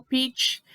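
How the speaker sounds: "peach" ending in a crisp tch; final tch. Shown as a demonstration. Teacher shows the final sound, "peach" with crisp tch. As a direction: close "peach" sharply on tch. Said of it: "Tá aquele tch no final".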